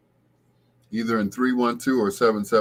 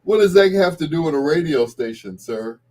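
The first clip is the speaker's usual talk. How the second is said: mock puzzled; 7 semitones higher, 6 dB louder than usual.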